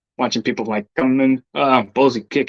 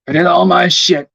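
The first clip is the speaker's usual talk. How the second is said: emphatic; 4 semitones higher than usual. Real, not acted. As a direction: declare it proudly. Repeats the line to himself.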